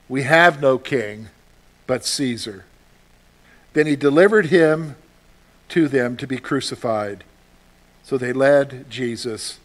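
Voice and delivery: solemn, dramatic Bible reading; preacher reading John aloud; scripture reading. Acted. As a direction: read the Passion with gravity. Reads the Passion account.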